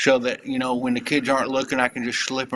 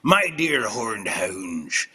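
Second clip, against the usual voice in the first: slow, low theatrical declamation; put-on recital voice; 3 semitones lower, much slower than usual. Starting the third Mad Lib reading, slow low character voice. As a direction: intone it slowly and low.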